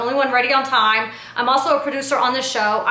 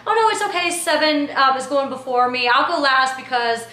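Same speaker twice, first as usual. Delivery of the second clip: mocking fake version. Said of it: "I never said it like that".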